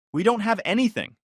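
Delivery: high, sharp rebuttal; cold retort. Acted. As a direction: shut her down firmly. Groom firmly rejecting ex.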